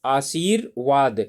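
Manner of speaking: आशीर्वाद said slowly, syllable by syllable, with the र sound clear; slow teacher demo of आशीर्वाद; slow careful pronunciation. Shown as a demonstration. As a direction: spell out आशीर्वाद slowly for the class. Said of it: "हम उच्चारण कर रहे हैं आशीर्वाद".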